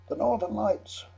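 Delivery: high, loud call from the crowd; shouted request. Retold or imitated. Pub patron answers singer with a title, shouting. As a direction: call out the title, pitched right up.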